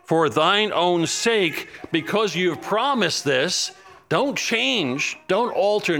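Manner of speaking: preacher voicing Daniel's urgent prayer; crying out to God. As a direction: press God on His promise. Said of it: "he's crying out to God".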